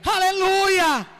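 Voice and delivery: a preacher shouting to the church that God casts out demons; preaching at full force. Real, not acted. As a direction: drive it home to the congregation. Preaching climax to congregation.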